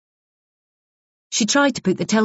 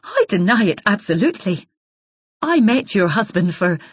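hot denial; 3 semitones higher than usual. Acted. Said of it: "said Isabel hotly".

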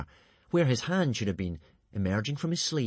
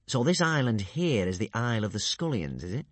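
gleeful purr. Acted. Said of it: "purred Alvin gleefully".

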